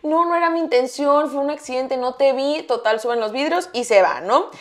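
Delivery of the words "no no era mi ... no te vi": meek apology. Retold or imitated. Driver excusing himself to the motorcyclist, mock-meek. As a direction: imitate an apologetic excuse, lightly.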